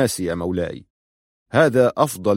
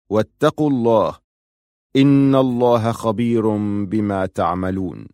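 slow, measured recital of scripture verses; Quran recitation. Acted. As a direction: recite the verses slowly and solemnly. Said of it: "ثم قرأ آيات من سورة المائدة". (تلاوة قرآنية متأنية)

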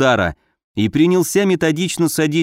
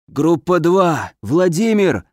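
hoarse voice over a radio earpiece; crackling earpiece; 3 semitones higher, slower than usual. Acted. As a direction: rasp it like a bad radio line. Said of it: "снова захрипел Гагарин".

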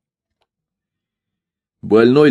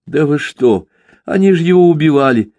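outraged; 6 semitones higher, 3 dB louder than usual. Acted. Son protests in outrage.

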